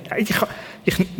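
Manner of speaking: whispered, halting stammer as Moses; whispering Moses. Acted. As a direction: breathe the words out, barely voiced, like a shy Moses. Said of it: "der nur kann flüstern".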